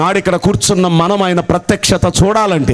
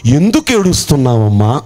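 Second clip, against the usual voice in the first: tender question; 6 semitones lower than usual. Acted. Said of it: "అది ఆయన అడిగిన మొదటి మాట".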